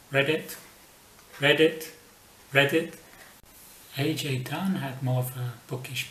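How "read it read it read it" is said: loud croaked "read it"; frog croak. Acted. Frog croaking at the chicken, loud. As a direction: croak like a frog, ribbit-style.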